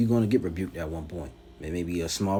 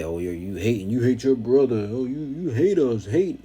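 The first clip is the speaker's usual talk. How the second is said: high, whiny mock accuser, pitched up and louder; mocking the critics; 4 semitones higher, 5 dB louder than usual. Preacher mocks rival camps crying you hate us, in a high whiny voice. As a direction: whine it like a sulking accuser. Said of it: "But what they say".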